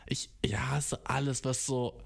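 hushed whispered confession. Real, not acted. Admitting to a friend he hates popular shows, whispered. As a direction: whisper it like a secret.

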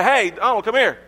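imitating dad hollering. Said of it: "My dad would holler from the back".

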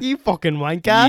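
hammed-up Irish-accented insult; mock Irish accent. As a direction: parrot it back in a loud, high Irish brogue. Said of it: "Bro, that was, like, Irish".

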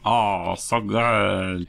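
lightly voiced teen girl; valley girl hint, drawn out; Lumpy Space Princess. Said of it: "Are you doing, like, Lumpy Space Princess?".

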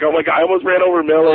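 high, loud retold panic; imitated scared dad. Dad tells mom of near miss, imitated scare. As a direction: act out a father's alarmed confession. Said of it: "he was so scared".

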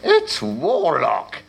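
snapping warlock. Acted. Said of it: "snapped the Bulk warlock".

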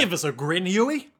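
cheery mock Cockney, lifting at the end; vague Cockney accent. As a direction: coax someone in a loose Cockney accent. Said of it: "like, a vaguely Cockney accent".

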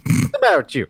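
high, loud disbelieving scold; indignant scolding. Retold or imitated. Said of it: "It's like".

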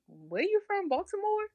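high-pitched mocking imitation of a questioner; mimicked nosy question. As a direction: mimic them, pitch jumping way up at the end. Mimics people asking where she's from.

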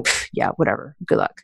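low, scoffing brush-off; dismissive. Retold or imitated. Boss silently doubting the departing assistant, low and dismissive. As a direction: imitate an inward eye-roll. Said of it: "rolling her eyes internally".

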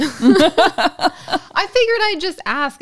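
laughing through the words. Real, not acted. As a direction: giggle it out, amused at yourself. Laughing at own cheeky request.

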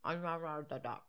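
lips pushed out, words mushed as if through a bill; duck bill voice. Shown as a demonstration. Showing a friend how a duck would talk, mouth stretched out. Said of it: "Try talking with a bill instead of a mouth".

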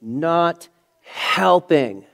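slow, drawn-out, high and loud; son's angry retort. Retold or imitated. Son snapping at his dad, drawn-out high angry voice. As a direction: hurl it back at dad. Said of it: "He said".

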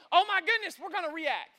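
overreact in a mild fluster; mock panic. Preacher voicing people who react without thinking, mock panic. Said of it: "we panic".

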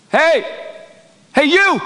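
put-on high, hollered American accent. Player calling from the bench, American accent. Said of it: "That's my American accent".

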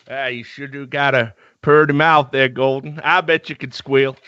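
put-on lightly drawled hillbilly accent. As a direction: play a hillbilly, leering, in a hillbilly accent. Deliverance hillbilly line.

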